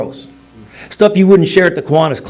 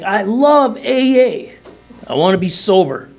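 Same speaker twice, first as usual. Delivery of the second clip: gushing; 6 semitones higher than usual. Retold or imitated. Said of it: "we're like".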